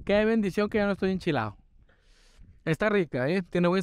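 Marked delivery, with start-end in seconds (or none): 0.0-1.6 relieved exclamation. Real, not acted. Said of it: "ya se me quitó lo enchilado".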